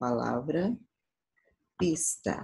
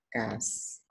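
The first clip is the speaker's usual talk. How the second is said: "cascata" split, with the middle "ca" held long; ударный слог; 6 semitones lower, 7 dB quieter than usual. Shown as a demonstration. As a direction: separate "cascata" and stretch its strong "ca". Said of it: "da sílaba mais forte".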